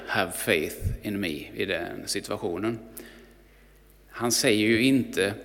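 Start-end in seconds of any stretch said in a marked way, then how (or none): 0.1-1.5 soft tender quote. Acted. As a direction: lower and softer, slow and gentle. Quoting the man again, reflecting. (lågt, mjukt och lugnt)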